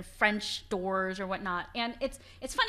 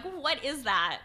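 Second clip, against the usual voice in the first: mildly horrified, higher-pitched quote; lightly acted disbelief, pitched up; mock horror; 5 semitones higher, much slower than usual. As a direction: imitate someone appalled by what they see. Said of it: "he was completely horrified".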